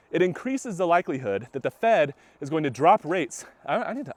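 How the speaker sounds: winded while walking; talking short of breath. Real, not acted. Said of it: "I'm getting out of breath".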